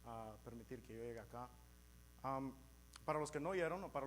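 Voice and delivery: Spanish spoken with an American accent; English speaker's careful accented Spanish. Real, not acted. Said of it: "mi español me limita".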